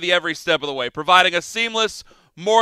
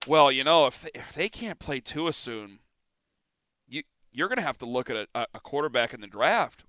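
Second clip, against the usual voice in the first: lower, much softer imitation of a TV analyst; mock network pundit; 5 semitones lower, 7 dB quieter than usual. Host mimicking national networks' talk on Tua, mock pundit. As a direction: quietly parody a hedging pundit, halting. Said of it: "I'm hearing on national networks".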